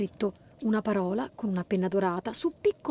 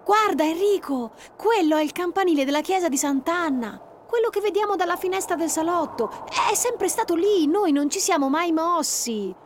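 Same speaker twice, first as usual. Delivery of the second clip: higher, patient reassurance; calm her scared brother; a little girl soothing her brother; reassuring sister; 8 semitones higher, 4 dB louder than usual. Acted. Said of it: "provava a rassicurarlo Giulia".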